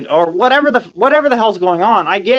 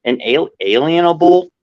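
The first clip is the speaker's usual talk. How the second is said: talking with loose false teeth; words slurred by fake teeth; loose dentures. Real, not acted. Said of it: "my teeth are fake, so some words are a little weird to pronounce".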